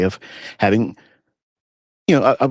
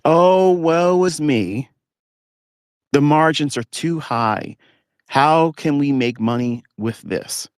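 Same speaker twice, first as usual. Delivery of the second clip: higher, drawn-out whiny lament, very slow; mock whining; 6 semitones higher, slower than usual. Mocking unprofitable traders crying over margins, hammed-up whine. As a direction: ham up a self-pitying crybaby. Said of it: "They're complaining".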